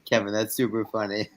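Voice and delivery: talking through laughter; chuckling as you speak; laughing. Real, not acted. Laughing at a viewer's comment.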